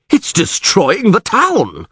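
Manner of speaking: high, long-drawn lament; distraught wail. A narrator's reading. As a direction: wail it slowly in dismay. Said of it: "wailed Neville".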